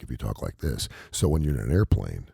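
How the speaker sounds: low, hushed demo voice; deep diaphragmatic voice. Shown as a demonstration. Co-host showing his partner a seductive airplane voice, deep and hushed. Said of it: "you get a much deeper, fuller".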